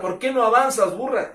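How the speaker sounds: high, loud preacher's yell at the donkey; angry rider shouting at his donkey; acted shout. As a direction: bark it at the stubborn donkey. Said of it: "le grita a la burra".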